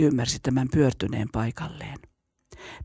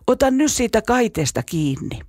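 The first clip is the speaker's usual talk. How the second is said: anguished shout; 7 semitones higher than usual. A narrator's reading. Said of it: "Tuskissaan hän huusi".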